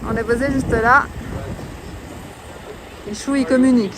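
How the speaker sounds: shouting over wind. Real, not acted. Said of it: "J'espère que tu m'entends avec le vent".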